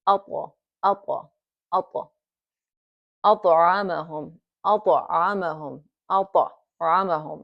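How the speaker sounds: أطعمهم with a light bounce on the ط; light qalqala. Shown as a demonstration. Teacher drilling the light qalqala. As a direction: tap the ط in أطعمهم and move on. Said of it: "it's very light".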